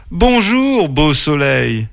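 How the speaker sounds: high, singsong bear greeting; cheerful greeting. Acted. Oreille greets the sun at dawn, cheerful high voice.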